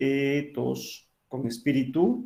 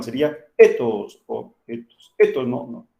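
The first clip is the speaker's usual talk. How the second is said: ethos with a loud, hard Spanish stress; louder mock wrong stress on ethos; wrong stress demo; 6 dB louder than usual. Shown as a demonstration. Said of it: "no se pronuncie más fuerte".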